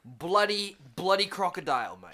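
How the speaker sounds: hammed-up Australian accent. Mocking a drug bust in a hammed-up Australian accent. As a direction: play up a cartoon Aussie bloke. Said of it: "say it in an Australian accent".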